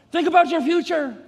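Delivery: enemy's tempting voice. Acted. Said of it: "So the enemy says".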